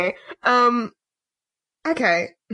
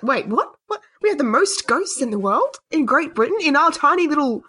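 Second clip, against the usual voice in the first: incredulous outburst; 4 semitones higher than usual. Pretend. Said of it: "I would have an absolute, like, conniption".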